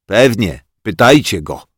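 put-on boy fuming behind the board. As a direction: snap it from hiding. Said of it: "pieklił się za tablicą Bodzio".

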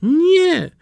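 very high little duckling answer; the duckling's small, high reply; timid duckling. Acted. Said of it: "A kot zapytał".

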